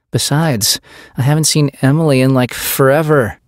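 put-on high, fast, loud teen chatter; eager teen girl. A narrator's reading. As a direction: gush like an eager teenager. Teen girl begging to stay.

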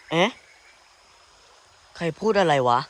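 loud, sudden call into the dark; startled call. Real, not acted. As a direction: challenge the hidden voice. Startled by a voice nearby. (ตะโกนถามด้วยความตกใจ)

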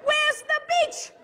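hammed-up outrage at a letdown; appalled disbelief. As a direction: protest in a squealing high pitch. Dismayed questions to friend on arrival.

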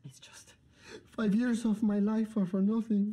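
tearful lament; crying. Acted. Man mourning five wasted years, tearful voice. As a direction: lament it through tears. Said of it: "Ah, you made him cry".

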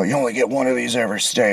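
hushed, rude mock remark; under his breath. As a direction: mutter it fast, imitating a snotty aside. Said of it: "kinda under his breath said".

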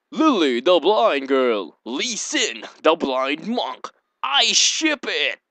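slow, drawn-out hammed-up announcement; mock fangirl. Gamer pairing Lily with Lee Sin, slow hammed-up fan glee. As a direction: savour each name like a fan.

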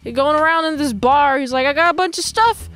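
lightly voiced pushy peddler; peddler's sales patter. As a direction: imitate a peddler hawking his goods. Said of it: "a peddler type man".

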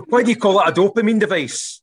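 high, loud curious pupil; loud puzzled pupil question; pupil asking. Retold or imitated. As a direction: ask it like a puzzled teenager.

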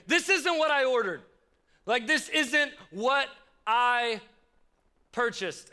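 mock outrage at the wrong order; retold anger. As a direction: replay the annoyed thought, stretched out. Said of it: "so mad".

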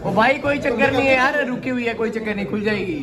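laughing. Real, not acted. Laughing while lift stuck.

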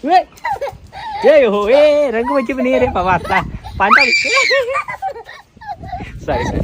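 high half-laughing pleas; mock pleading. Father begging his son to stop splashing, high mock pleas.

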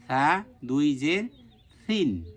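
drawn-out সা and soft সিন, th-like consonant; gentle th-like start on সা and সিন; soft pronunciation. Shown as a demonstration. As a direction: spell out সা দুই জের সিন slowly with a soft lisped first sound. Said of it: "নরম করে পড়তে হবে".

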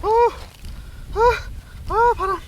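high, loud gasps in the cold; gasping in icy wind. Real, not acted. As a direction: gasp as the freezing wind hits. 바람이 너무, 세다.

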